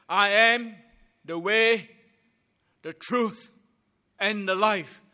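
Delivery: loud, weighty pulpit proclamation; emphatic declaration. Shown as a demonstration. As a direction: proclaim it boldly, so nobody can miss it. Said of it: "nobody can miss it. ... so very loud and clear".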